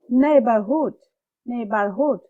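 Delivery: Neighborhood with NEIGH hit hard; stressed first syllable. Shown as a demonstration. Teacher drilling the word twice, stress on NEIGH. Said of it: "stress সহকারে পড়ব".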